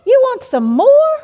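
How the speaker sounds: high, loud, incredulous booming God voice; sarcastic outraged God; mock stern God. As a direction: play a scandalised God refusing seconds. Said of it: "we don't have to hear God saying".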